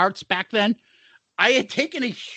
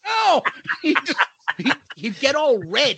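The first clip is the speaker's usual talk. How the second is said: laughing; 3 semitones higher than usual. Real, not acted. Laughing while retelling.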